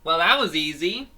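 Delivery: mock-casual victory line; smug hero. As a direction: brag it out like the winning hero. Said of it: "Fango's like".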